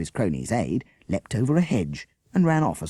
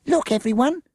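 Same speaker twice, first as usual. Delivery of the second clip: high loud shout; 6 dB louder than usual. Acted. Avril waving the holdall, shouting to all. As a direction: wave the bag and call everyone over. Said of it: "Avril shouted".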